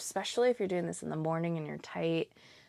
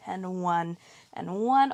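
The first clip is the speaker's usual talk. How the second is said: counting out while doing crunches; strained counting mid-exercise; straining through ab work; much slower than usual. Real, not acted. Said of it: "Oh, my abs are burning".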